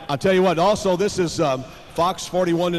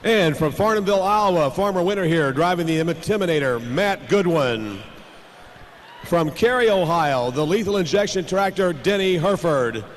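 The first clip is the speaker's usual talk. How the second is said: tractor pull announcer. Acted.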